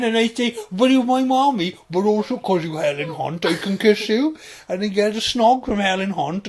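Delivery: loud, high put-on voice; childish film dreamer. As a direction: tell it as an excitable simpleton.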